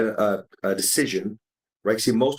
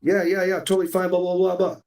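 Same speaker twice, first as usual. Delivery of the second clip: higher, quick yeah-yeah brush-off, waving the question away; dismissive brush-off; 7 semitones higher than usual. Acted. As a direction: shrug it off like nothing's wrong. Buddy brushing off a check-in.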